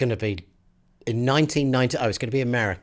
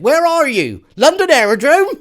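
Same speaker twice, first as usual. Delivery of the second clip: put-on higher, louder old granddad; granddad's voice; 11 dB louder than usual. Imitating her granddad on the phone, higher and louder. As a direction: call it out like a puzzled grandfather. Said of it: "And he said".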